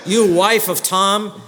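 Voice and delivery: 1 mock pompous husband. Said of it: "this guy's got a big head".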